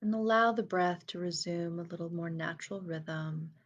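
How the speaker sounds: unhurried breath cues, stretching key words and leaving space; guided meditation. Real, not acted. Inviting listeners to breathe fully in and out, guided meditation.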